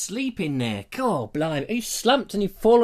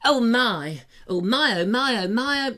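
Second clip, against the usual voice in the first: mock dying; 5 semitones higher, slower than usual. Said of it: "and she goes".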